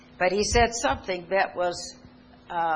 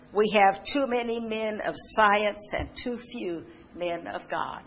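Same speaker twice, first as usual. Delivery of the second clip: solemn quotation; 3 semitones higher than usual. Acted. Preacher quoting Omar Bradley.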